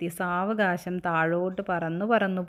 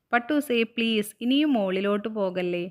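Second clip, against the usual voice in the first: pleading; 2 semitones higher than usual. Acted. Girl begging her kite not to climb, pleading. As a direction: plead with a runaway friend, voice lifted at first.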